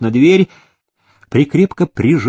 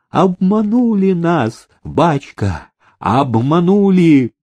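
wailing plea; 6 semitones higher, slower than usual. Acted. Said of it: "его запили".

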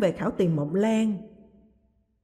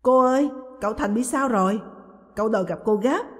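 alarmed; 3 semitones higher, 3 dB louder than usual. Acted. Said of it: "vẻ mặt hốt hoảng".

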